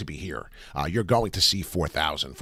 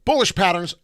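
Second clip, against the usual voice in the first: excited; 10 semitones higher, 12 dB louder than usual. Real, not acted. Hyped market call.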